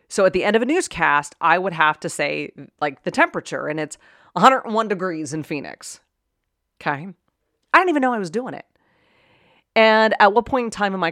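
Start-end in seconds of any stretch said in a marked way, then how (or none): 4.4-6.0 "hundred" said as "hunnert", Pittsburgh style; Pittsburgh pronunciation. Shown as a demonstration. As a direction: newscast temperature with "hundred" squashed to "hunnert". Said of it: "say with a Pittsburgh accent".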